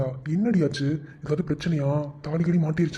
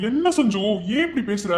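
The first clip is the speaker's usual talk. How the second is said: higher, anxious pleading; panicked pleading; 3 semitones higher than usual. Acted. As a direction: beg her to explain, rattled.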